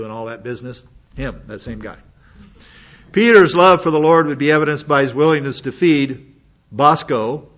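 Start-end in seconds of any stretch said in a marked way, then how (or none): 3.1-7.5 loud sermon line that slips into "Bosco" instead of the sheep; confident slip. Real, not acted. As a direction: preach it out firmly and blurt "Bosco" by mistake. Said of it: "I don't know where that came from".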